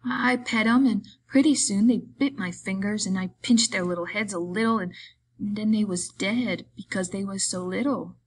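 lightly voiced simple fellow, earnest; a hint of childlike pleading; simple-minded Lenny, apologetic. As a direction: explain it like a guileless child.

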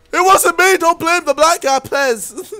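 loud, high, playful protest of innocence; mock pleading. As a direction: plead your innocence, hammed up. Mock pleading over the fire.

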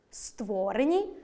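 створені with stretched СТВО; slow створені, leaning on СТВО; stress on the root. Shown as a demonstration. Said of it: "наголос на корені". (наголос на корені: ствОрені)

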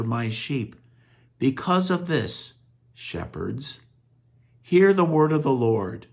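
measured, solemn lectern reading; scripture reading. Acted. Reads scripture aloud at liturgy.

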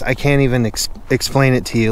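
lips too cold to move properly; talking through freezing cold, stumbling; numb with cold. Real, not acted. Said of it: "it's hard to talk".

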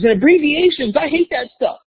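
high kid voice, mock complaining; a kid groaning about abbreviations to the teacher; kid's whine. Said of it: "this other kid goes".

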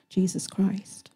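slow, soft whisper; reverent hush. Real, not acted. Preacher to his listeners, hushed reverent whisper. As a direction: breathe the name with reverence.

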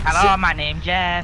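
put-on high falsetto girly greeting; sweet high girl voice; little girl voice. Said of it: "in a little girl voice".

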